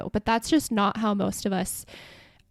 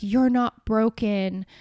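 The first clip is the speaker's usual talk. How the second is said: slow, mock soothing; mock therapy-speak; slower than usual. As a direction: parody a gentle AI affirmation. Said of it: "phrases like".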